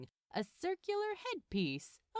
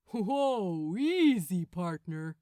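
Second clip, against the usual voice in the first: louder, calming yet exasperated archangel; Gabriel restraining Crowley; 6 semitones higher, 6 dB louder than usual. Acted. Gabriel tells tensed Crowley to ease off, exasperated. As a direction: hold him back, then lose patience.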